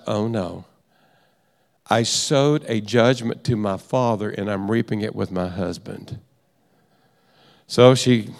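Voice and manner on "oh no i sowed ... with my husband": low, soft, sinking admission; sobered realization. Retold or imitated. Wife realizing her judgment of father, quietly sobered. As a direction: drop the voice as it dawns on her.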